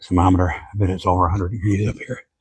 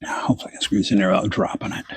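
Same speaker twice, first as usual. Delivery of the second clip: whispering; 5 dB quieter than usual. Real, not acted. Squeezing into tight spot.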